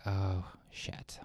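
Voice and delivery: hushed, whispered dread. Acted. Priest arriving reluctantly at the house, dreading whisper. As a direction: mutter it under your breath, voiceless.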